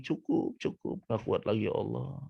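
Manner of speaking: soft, high strained plea; mock wailing. Grated coconut begs God to stop, mock wailing. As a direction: imitate a feeble scream, starting high and softened. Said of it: "Dan kelapa menjerit lagi".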